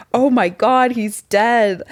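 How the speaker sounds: high, panicky gasp of dread; retold panic. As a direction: relive the moment you thought he was dead. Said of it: "I'm freaking out 'cause I'm so high".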